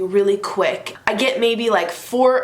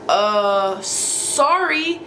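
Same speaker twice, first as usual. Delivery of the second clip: awkward sorry; much slower than usual. Retold or imitated. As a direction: stammer it, caught red-handed. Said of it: "And so he goes".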